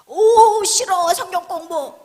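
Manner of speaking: loud, high burst of aversion; mock horrified recoil. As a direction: exaggerate a panicked refusal. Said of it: "사람들이 경기를 일으켜". (경기하듯 과장되게 질색하며)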